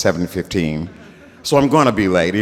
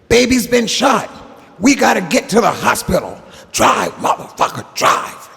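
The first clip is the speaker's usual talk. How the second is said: frantic shout; 12 semitones higher than usual. Retold or imitated. G-Man repeating his orders to the driver, high frantic yell. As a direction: scream it at the driver in a panic. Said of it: "he said".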